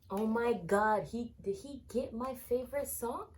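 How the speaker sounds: high, loud fangirl squeal of joy; excited squeal. Real, not acted. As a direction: burst out high and loud, thrilled. Fan spots favourite song, squeals.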